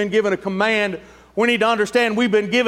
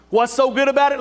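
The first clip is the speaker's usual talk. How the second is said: preacher's rhetorical challenge. Acted. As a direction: take up the question boldly. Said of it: "Let me tell you".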